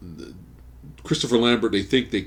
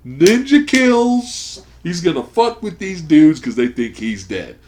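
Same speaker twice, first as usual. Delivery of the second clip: louder and higher, pumped-up anticipation; hyped fan; 8 semitones higher, 9 dB louder than usual. Retold or imitated. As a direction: sell the Rambo fantasy, getting louder. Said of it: "and I'm like".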